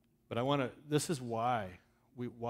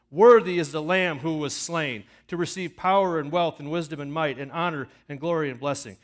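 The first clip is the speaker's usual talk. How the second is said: loud acclamation; 6 semitones higher, 16 dB louder than usual. A narrator's reading. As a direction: shout the praise like a choir of angels. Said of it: "saying with a loud voice".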